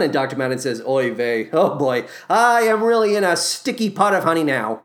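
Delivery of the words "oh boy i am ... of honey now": ordinary talk, nothing marked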